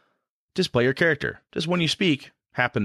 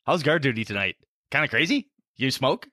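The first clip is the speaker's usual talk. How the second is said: excited grin; 9 semitones higher than usual. Shown as a demonstration. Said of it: "you really wanna go".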